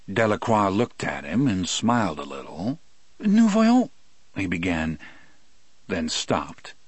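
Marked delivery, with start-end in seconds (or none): 3.2-3.9 Cajun French voice. Acted. Del begins in French.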